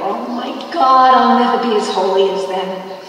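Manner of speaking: mock awed panic. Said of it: "and I go".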